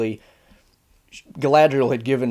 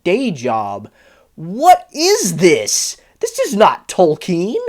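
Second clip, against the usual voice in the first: much higher, exasperated mock outrage; exasperated rant; 4 semitones higher than usual. Ranting at the show's Galadriel, with exasperated disbelief. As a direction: pile on the disbelief, slowing down at the end.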